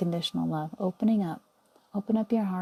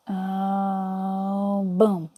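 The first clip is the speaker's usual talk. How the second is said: excited boom; 3 dB louder than usual. Acted. Guide pushing the infinity button for everyone, a loud burst. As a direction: burst out with the launch.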